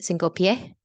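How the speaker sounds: cinco pie with the final S of pies dropped to nothing; aspirated S. Shown as a demonstration. Teacher shows students the Puerto Rican cinco pies without the S. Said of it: "In Puerto Rico, it's like pi-, cinco pies".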